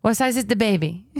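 poor attempt at a Brazilian accent; Brazilian mom's accent. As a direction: imitate a Brazilian mother's English, badly. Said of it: "that accent sounds awful".

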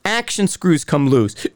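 hiccuping mid-sentence; with hiccups. Real, not acted. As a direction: talk through a hiccup. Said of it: "I'm hiccuping 'cause I'm not breathing".

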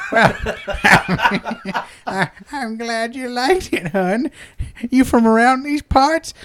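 put-on high, folksy old-woman voice; old madam. Old madam chatting with her satisfied customer, in an old-woman voice. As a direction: chat sweetly like a pleased crone. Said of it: "she's all old".

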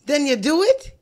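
Jamaican accent attempt. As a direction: ask with a lift, in Jamaican accent. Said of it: "Don't judge me on my accent".

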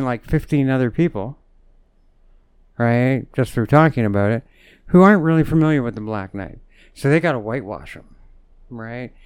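ordinary talk

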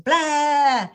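high, drawn-out mock outburst; mock rant noise. Mom imitating her own rant in the kitchen, exasperated. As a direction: spew it out as a retold rant. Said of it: "I'm on a rant in my kitchen".

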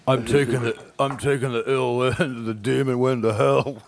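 a light hammed-up Cage delivery; Nick Cage impression. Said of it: "with Nick Cage saying".

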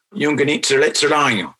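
"Yung ganit sirlet sirlayo" said carefully in Mohawk, stress on sirlet; Mohawk word. Shown as a demonstration. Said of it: "That's a word meaning".

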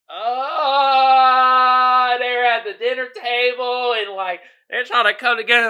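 mocking gushy voice. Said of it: "and I'm just like".

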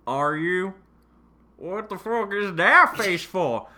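slow, sleazy come-on read; creepy seductive. Acted. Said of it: "I said that in a very creepy, ghetto, seductive way".

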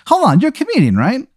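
high, excited voice from a tough guy; a hulking inmate gushing like a fan; tough guy fanboy. Acted. Bartholomew spots his favourite comedian, high and excited.

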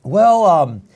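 mock hedging excuse; hammed-up reluctant reply; hesitant stall. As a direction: stall politely to dodge it. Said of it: "But if you don't".

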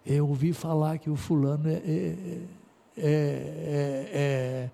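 lightly voiced gossip trailing off; gossiping churchgoer. A gossip hinting about an elder, in hushed mock hesitation. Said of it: "Se alguém chega assim, ó".

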